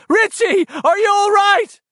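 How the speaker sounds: high, loud call; anxious shouting. A narrator's reading. Bill checking on Richie, anxious shout.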